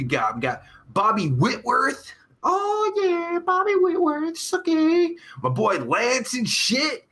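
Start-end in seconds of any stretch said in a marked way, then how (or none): 2.4-5.1 very high squealed shout-out; silly falsetto. Pretend. Streamer greeting a viewer, silly falsetto.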